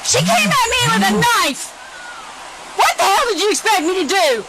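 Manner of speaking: high agitated rapid voice; shaken. Real, not acted. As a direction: talk fast, rattled by adrenaline. Officer shaken after shooting.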